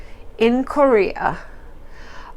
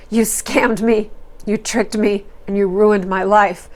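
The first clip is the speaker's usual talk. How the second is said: slow emphatic accusing. Retold or imitated. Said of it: "makes it through loud and clear".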